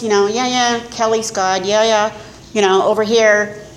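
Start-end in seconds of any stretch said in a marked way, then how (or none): 0.3-2.1 brushing it off, yeah yeah; dismissive lip service. Retold or imitated. To her sponsor, a mock dismissive yeah yeah. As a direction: humour her without meaning a word. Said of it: "I did the lip service".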